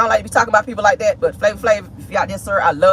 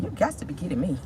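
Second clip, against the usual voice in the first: disbelief; 6 semitones lower, 11 dB quieter than usual. Retold or imitated. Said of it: "I was like".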